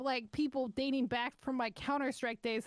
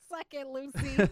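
gleeful mocking jab at Lucy; laughing taunt; 4 dB louder than usual. Real, not acted. Podcaster taunting a Twitter commenter named Lucy, laughing and mocking. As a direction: laugh it out then punch her name.

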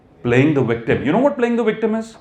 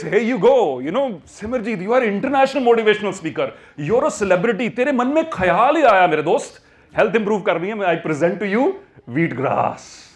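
universe voice; 5 semitones higher, faster than usual. Acted. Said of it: "The universe says".

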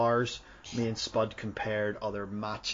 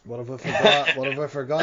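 calling out; 3 semitones higher, 9 dB louder than usual. Real, not acted. Calling out a reminder.

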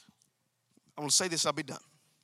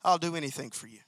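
softer devoted promise; 5 semitones lower, 3 dB quieter, faster than usual. Shown as a demonstration. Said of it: "with an attitude that says".

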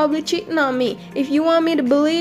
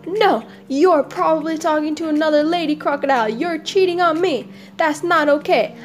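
higher, mock-indignant scolding; accusing wife; 4 semitones higher than usual. Crocodile wife accuses husband of cheating, indignant.

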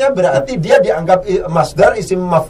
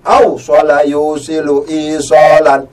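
slow recitation; slower than usual. Shown as a demonstration. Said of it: "Berasal dari fi'il madhi apa?".

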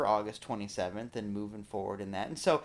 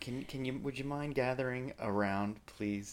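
sweetly passive aggressive; 5 dB quieter than usual. Acted. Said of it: "passive aggressive enough about this".

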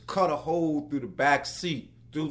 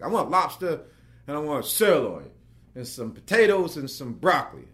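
no nonsense; 5 dB louder than usual. Retold or imitated. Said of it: "no nonsense at this point".

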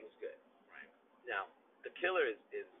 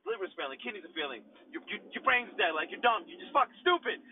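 mocking inner voice; 6 semitones higher, 5 dB louder than usual. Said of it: "And then I'm like".

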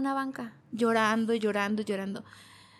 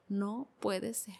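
stunned disbelief; 3 semitones lower, 12 dB quieter, much slower than usual. Retold or imitated. Retold reaction in hospital.

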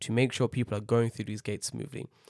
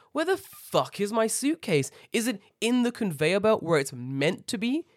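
high-pitched, baffled complaint; exasperated passengers; 5 semitones higher than usual. Retold or imitated. Voicing twenty, thirty people hunting suitcases, high and exasperated. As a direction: act out mounting exasperation at a lost bag.

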